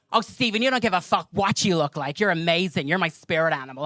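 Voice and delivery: lightly imitated gushing coworker; a hint of a coworker's backhanded praise; Brandy. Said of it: "So she'd be like".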